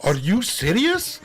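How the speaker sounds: alarmed caller. Retold or imitated. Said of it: "And he goes".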